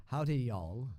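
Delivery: lightly put-on Southern greeting; Southern accent. Shown as a demonstration. New Nashville resident greeting locals, light Southern accent. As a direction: greet them with a Southern twang. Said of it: "Southern Obi-Wan Kenobi".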